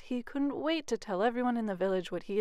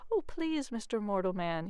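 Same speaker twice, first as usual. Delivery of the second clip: pleading leprechaun. Acted. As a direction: beg the mortal to let him off. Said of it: "he pleaded".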